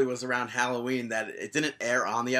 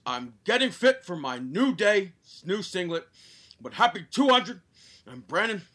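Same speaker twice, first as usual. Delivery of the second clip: Big E; 4 semitones higher than usual. Pretend. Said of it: "as if Big E was reading it".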